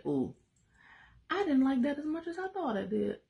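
high, hammed-up whimpering regret; mock regret. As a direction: whine it like a sorry child caught out. Voicing a regretful disobedient believer.

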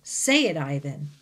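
insist, loud and firm; loud command. Acted. Bob the dog orders Ivan to say it, loudly. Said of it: "Bob commands".

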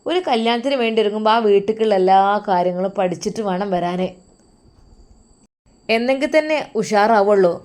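scornful mother-in-law telling off her son's new wife; mocking mother-in-law. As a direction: sneer at the bride's clumsy pathiri. Mother-in-law mocks the bride.

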